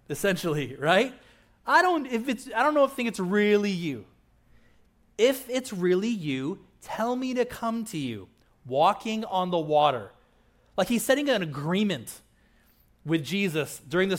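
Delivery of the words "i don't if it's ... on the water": doubting Peter. Retold or imitated. Peter doubting Jesus in storm.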